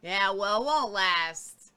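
grumbling, dismissive pessimist; mock pessimist. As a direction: scoff it off like a pessimist. Mocking a pessimist's reply.

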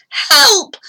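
high, loud cry for help; sudden pained shout; shouted plea. A narrator's reading. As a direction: yell out for rescue. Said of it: "I shouted".

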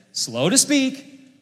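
"slow" drawn out high and slow; stress on slow. Acted. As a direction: stretch "slow to speak" to make the point. Stressing the scripture phrase.

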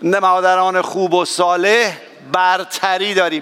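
slow, tender line for husbands to repeat; slow demo line. Shown as a demonstration. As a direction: spell it out slowly so the men can echo it. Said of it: "بگید".

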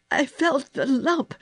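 high, strangled panic; choked. A narrator's reading. Sick boy tells girl of imagined lump, choked. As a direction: gasp it out, terrified. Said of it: "he choked".

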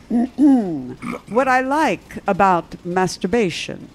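slow, hammed-up Czech accent; attempted Czech accent. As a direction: quote the director in a mock Czech accent. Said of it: "trying to do a Czech accent".

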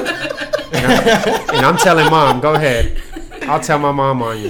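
put-on laughing kid threatening to tattle; whiny tattling little sibling. Threatens to tell Mom.

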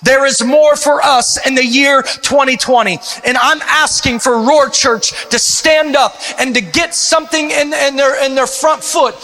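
fervent rallying preacher; rally the church to battle; rally speech. Acted.

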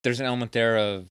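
tipsy, loose rambling speech. Real, not acted. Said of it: "I'm getting pretty ru-, pretty drunk".

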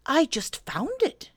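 high, slow bear voice; bashful Pooh. Acted. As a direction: offer it slowly and innocently.

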